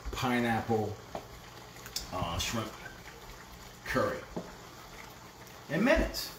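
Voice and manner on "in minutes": excited high exclaim. Real, not acted. Excited finish.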